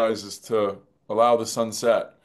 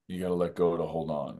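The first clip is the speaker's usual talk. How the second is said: much softer, fading to almost nothing; barely audible; 4 semitones lower, 8 dB quieter, faster than usual. Retold or imitated. Treya repeating Ken's words alone, barely audible murmur. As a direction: let the repeat die away into a near-silent murmur. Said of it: "it's barely audible".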